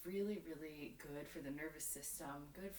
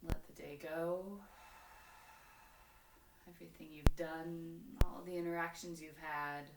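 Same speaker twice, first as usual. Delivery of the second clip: yoga instruction; 4 dB louder than usual. Real, not acted. Leads yoga practice with breathing cues.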